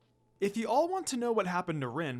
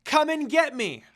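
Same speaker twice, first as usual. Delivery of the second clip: loud, high dare; taunting shout; 10 semitones higher, 9 dB louder than usual. Acted. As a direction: yell it to lure the bear. Taunting the bear to chase.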